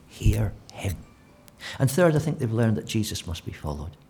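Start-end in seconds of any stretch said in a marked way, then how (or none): 0.1-1.0 hushed whisper; whispered command. Acted. Voice from heaven whispering to the disciples to hear Jesus. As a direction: breathe it like a voice from above.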